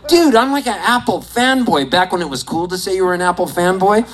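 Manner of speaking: high-pitched amazed gushing; starstruck excitement. Retold or imitated. Fanboy meeting his tech idol, starstruck. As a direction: open on a high whoa, then gush.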